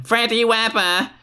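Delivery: high screamed name; mock scream. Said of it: "Please scream".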